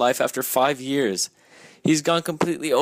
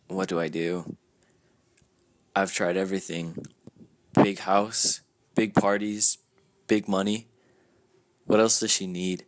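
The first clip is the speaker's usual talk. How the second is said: lightly voiced Gatsby longing over Daisy; Jay's journal voice; 3 semitones lower than usual.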